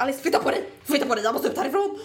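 a touch of panic, pushing past someone; re-enacted panic. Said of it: "då får jag panik".

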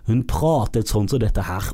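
slow imitation of a burred R; mocking back-of-the-throat R; mock guttural R. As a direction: drag out throaty Rs, mimicking her speech. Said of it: "fra første skarpe R-en".

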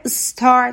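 استار begun on a plain s, no vowel before it; correct English pronunciation. Shown as a demonstration. Teacher models English star for Persian learners, correct pronunciation.

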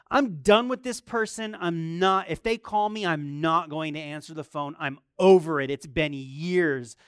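loud, fed-up rant to his wife. Retold or imitated. Telling wife Grace he's done, loud fed-up complaint. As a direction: insist you're finished with this person. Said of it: "This is what I said to Grace".

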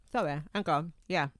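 talking while eating; words round a bite of food; mouth full. Real, not acted. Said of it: "Can you stop eating while you're talking?".

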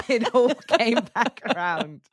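talking through a high laugh; slow, laughing wrap-up of a tangent. Real, not acted. Both hosts laughing at tangent.

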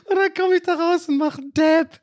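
high, laughing through the words; cracking up at his own blunder. Real, not acted. Laughing at himself while telling listeners about the blunder.

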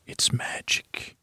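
breathy hushed whisper, slow. Retold or imitated. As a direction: breathe it out like a secret, unvoiced and slow. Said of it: "and he says it like a whisper".

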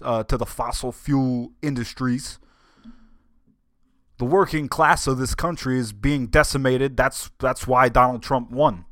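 mild Bernie-style stump speech, not fully in character; Bernie Sanders impression. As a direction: channel a stump-speech senator railing against Wall Street, lightly. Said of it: "We'll do it in Bernie voice".

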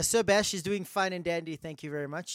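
lightly put-on British accent; a hint of mock-genteel British accent; Pommy accent. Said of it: "this Pommy accent".

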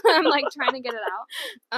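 laughing, picking a hair from mouth. Real, not acted. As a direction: talk while pulling a hair out. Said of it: "I have a hair in my mouth".

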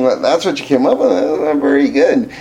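lightly voiced naysayer, brisk and offhand; mock dismissive critic. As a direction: toss off a mild put-down. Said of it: "other people are just saying".

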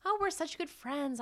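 high-pitched mock gushing; imitated boast. Host voicing her claim about Tyler Perry, high mock gushing. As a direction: mimic someone gushing about a friend.

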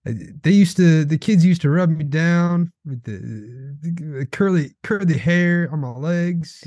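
a hint of creepy old Biden; Biden impression. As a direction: lightly take off Biden's rambling story. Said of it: "And he's like".

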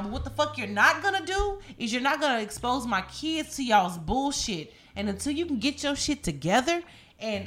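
a hint of telling the neighbors off; retold rage. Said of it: "I went so off".

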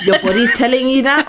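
mock a carer's disbelief while laughing.

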